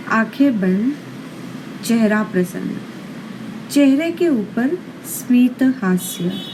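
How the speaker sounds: measured yoga nidra guidance with long pauses; guided meditation. Acted. Yoga teacher settles listeners lying down for yoga nidra, guided meditation. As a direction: guide the listener into rest, phrase by unhurried phrase.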